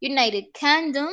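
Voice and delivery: "United Kingdom" said carefully as a model; teacher models "United Kingdom"; careful classroom "United Kingdom"; English pronunciation. Shown as a demonstration. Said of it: "se va a decir United Kingdom".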